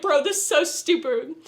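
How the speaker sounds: half-laughing exasperated "bro" rant; retold rant. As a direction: tell the show off like a frustrated friend. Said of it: "I was like".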